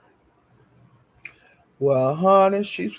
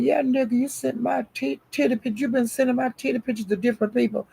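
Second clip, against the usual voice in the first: higher-pitched acted confrontation; retold accusation; 8 semitones higher, 4 dB quieter, faster than usual. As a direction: confront him, imitating her outrage. Acting out angry accusation.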